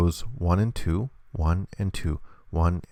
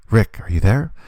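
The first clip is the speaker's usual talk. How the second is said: louder pretend call, rising questioningly; 3 semitones higher, 6 dB louder than usual. Michonne checking for Rick, acted calling out. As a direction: call out for someone out of sight. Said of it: "So Michonne says".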